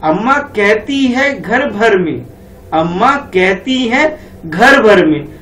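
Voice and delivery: slow sing-song verse reading; poem recitation. Shown as a demonstration. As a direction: recite the line slowly for the class. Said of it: "आप पढ़ लेते हैं".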